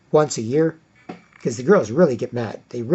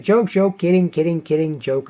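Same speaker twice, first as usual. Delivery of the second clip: a higher, rushed take-back that fades out; quick flustered "just kidding"; hasty backpedal; 3 semitones higher than usual. Retold or imitated. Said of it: "I'm like".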